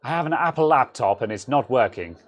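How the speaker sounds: lightly put-on London accent; playful take on a well-off Londoner's accent; silly London accent, lightly hammed; mock London accent. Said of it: "I'm not saying this is how Londoners talk".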